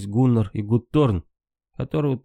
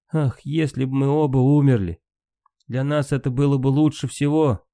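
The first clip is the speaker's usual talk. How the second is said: higher, anguished sigh of a wish; despairing wish; 4 semitones higher than usual. Acted. Brunhild sends Sigurd away, higher and anguished.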